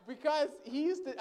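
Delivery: words spoken through a laugh; laughing while remembering an odd friend. Real, not acted. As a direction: still chuckling as you talk.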